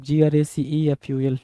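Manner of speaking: spelled letter by letter. Shown as a demonstration. Teacher spelling out a word for students, slow and letter by letter. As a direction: slowly spell out each letter. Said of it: "ग्रेसफुल बोल रहे हो आप".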